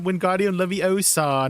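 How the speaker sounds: drawn-out "Wingardium Leviosa" like a spell; mock spell casting. Streamer quoting Harry Potter to a British viewer, slow spell. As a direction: cast it slowly like a wizard. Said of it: "Do you know Emma Watson by chance?".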